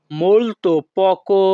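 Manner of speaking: "molto poco" said slowly and clearly; slow repeat. Shown as a demonstration. Teacher repeating for students, slow and careful.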